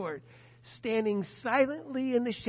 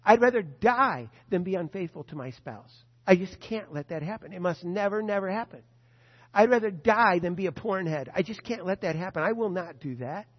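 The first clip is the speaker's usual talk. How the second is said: fervent vow; 7 dB louder than usual. Acted. Preacher's repeated vows.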